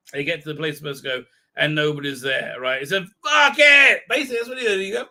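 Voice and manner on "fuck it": high, loud curse; mock outburst, loud and high; angry shout. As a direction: spit it out as a furious yell. Character curses on empty meeting place.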